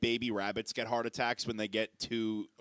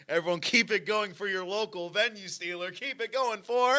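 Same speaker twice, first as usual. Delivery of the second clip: high, loud emcee voice; mock stage intro; 7 semitones higher, 6 dB louder than usual. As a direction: imitate hyping a crowd from the stage. Re-enacts introducing comic on stage.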